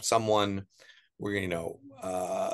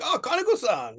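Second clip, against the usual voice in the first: much higher, excited put-on voice; mock awed tout; 4 dB louder than usual. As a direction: gasp the name like it's a celebrity. Tout reacts to boss's name.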